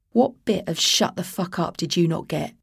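clenched Cockney menace, held back; restrained Cockney fury; through gritted teeth. Acted. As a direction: spit it through clenched teeth at the posh prattler. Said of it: "spoke through gritted teeth".

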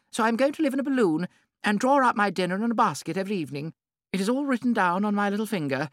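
high, loud, gushing lady; gushing society hostess. A narrator's reading. Lady Windermere boasting to the Duchess, high and gushing. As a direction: show off her palmist with delight.

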